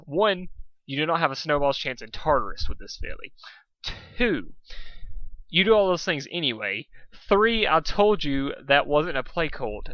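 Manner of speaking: loud, high threatening rant; bossy threat from a little dragon. Acted. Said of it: "threatened Spike".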